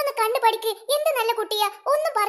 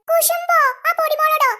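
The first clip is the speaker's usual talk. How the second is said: indignant surprise; 4 semitones higher, 4 dB louder than usual. Acted. Accused of jealousy.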